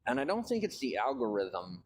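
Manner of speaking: talking round a cigarette in the mouth. Real, not acted. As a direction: speak with a cigarette between the lips. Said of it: "I have a cigarette in my mouth".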